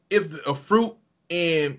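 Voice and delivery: put-on slow, half-hearted Somali accent; tentative Somali accent. Quoting a Somali teammate, tentative accent. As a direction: start a Somali accent, hesitantly. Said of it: "I don't wanna do the accent".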